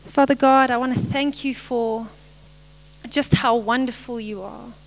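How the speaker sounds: earnest prayer, phrase by phrase with pauses; real spoken prayer. Real, not acted. Speaker closes the message praying to Father God, earnest prayer. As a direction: address God directly, letting each phrase tail off.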